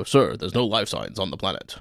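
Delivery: a lightly put-on bridge officer; crewman voice. One-line extra reporting to the captain, lightly voiced officer. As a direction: report to the captain with mock formality. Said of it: "I don't know why I'm doing this voice".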